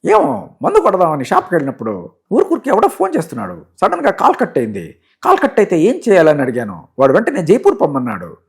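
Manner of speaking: comic servant, pitch swooping high and falling; high, wailing comedy-servant voice; Kotigadu. Acted. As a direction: give a hammed-up excuse to the master. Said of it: "MS Narayana గారు".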